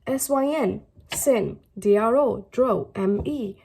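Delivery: "S Y N, sin, D R O, dro, M E" spelled out slowly, one chunk at a time; syllable by syllable. Shown as a demonstration. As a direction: break "syndrome" into slow chunks: "sin", "dro", "me". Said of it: "So it's".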